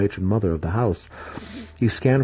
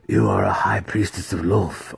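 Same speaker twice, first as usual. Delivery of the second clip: firm, daring statement; bold. Acted. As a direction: say it with sudden boldness. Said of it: "Alton said boldly".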